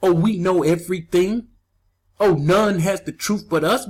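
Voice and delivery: mock the self-satisfied crowd, lightly; smug mock attitude. Preacher mocks the proud who think they know everything, smug. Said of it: "with this attitude".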